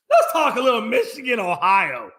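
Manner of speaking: excited announcement. Shown as a demonstration. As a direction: announce the big game with relish. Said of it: "I've been waiting on this one".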